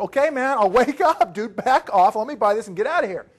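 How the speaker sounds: mock-annoyed pushback with a laugh; exasperated brush-off. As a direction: back off, I'll buy it, just let me go. Speaker brushing off pushy seller.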